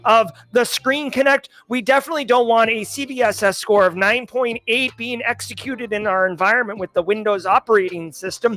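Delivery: lightly voiced technical know-it-all; jargon-spouting techie. Cyber expert to a non-security coworker, jargon-heavy. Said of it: "if you go up to somebody who's not in cybersecurity and you're like".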